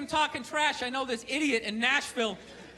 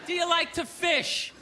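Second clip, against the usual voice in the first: mock polite advice; 2 semitones higher, 5 dB quieter than usual. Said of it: "it's like".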